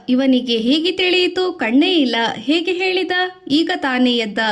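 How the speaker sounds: astonished villagers murmuring; amazed. Acted. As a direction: marvel at how he knew. Villagers amazed at blind boy.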